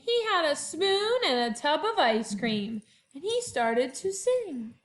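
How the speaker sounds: lively picture-book read-aloud; reading to children. A narrator's reading. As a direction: read it to first graders with bounce. Teacher reads picture book aloud.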